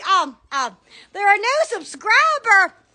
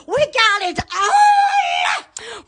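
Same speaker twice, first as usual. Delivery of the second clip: drawn-out excited boast; 4 semitones higher, much slower than usual. Pretend. Stretched out selling the products.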